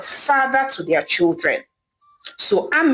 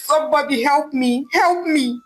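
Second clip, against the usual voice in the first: higher, rising cries ending in a loud wail; wailing for help; 5 semitones higher than usual. Acted. Betrayed wife calling for help, wailing high. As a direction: cry out for help as if heartbroken. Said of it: "Idara wailed loudly".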